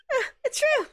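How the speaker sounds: put-on high, bubbly Valley girl. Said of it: "Valley girl voice".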